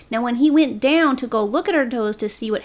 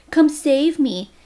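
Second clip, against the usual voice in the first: slow, sarcastic taunt, a bit higher and louder; mocking; 3 semitones higher, 4 dB louder, slower than usual. Wife mocking her husband's call for help, slow sarcastic taunt. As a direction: drawl it out to mock him. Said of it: "decided to mock Johnny Depp".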